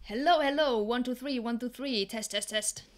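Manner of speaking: fading mic check from further off; soft, distant sound check. Shown as a demonstration. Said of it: "less loud".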